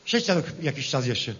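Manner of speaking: lightly voiced rustic politician, rally style; a farmer-politician addressing the crowd, hammy; Lepper impression. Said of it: "jestem lepier". (parodia Leppera, lekko zagrana)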